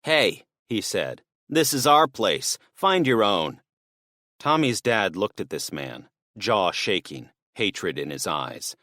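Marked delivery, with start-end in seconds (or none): 0.0-3.6 higher, louder warning to back off; a thief squaring up at the door; threatening burglar. Acted. Burglar warning the father away, hostile.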